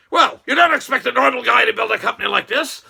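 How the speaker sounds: loud emphatic boast, rising on "don't"; the boss answering the interviewer, punching "don't" loudly and rising; retold boast. Musk answering the interviewer, a loud proud retort. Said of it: "and he says".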